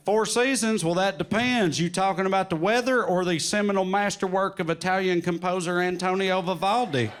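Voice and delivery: hammed-up highbrow retort; mock-erudite correction of an innocent question; mock pretentious. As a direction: play at being a pretentious know-it-all. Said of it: "just getting pretentious for no reason".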